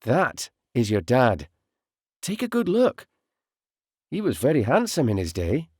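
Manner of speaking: mother tenderly showing her son his father's photo; softened voice. A narrator's reading. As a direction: soften and show him kindly. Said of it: "Her voice softened".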